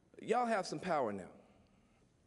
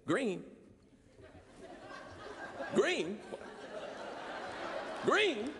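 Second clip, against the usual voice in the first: mock baffled echo; 4 semitones higher, much slower than usual. Mocking others' reaction to green jobs.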